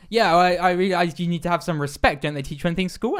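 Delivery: mildly aggressive retold rebuke; a bit aggressive. Taxi driver lectures confused passenger on respect, mildly aggressive. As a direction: imitate an irritated driver lecturing his passenger. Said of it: "starts getting a bit aggressive".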